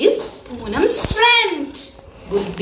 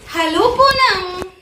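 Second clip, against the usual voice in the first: lightly acted, higher-pitched hello; grandfather's greeting; 5 semitones higher than usual. Teacher retelling grandfather greeting Poonam, lightly voiced hello. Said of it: "grandfather says".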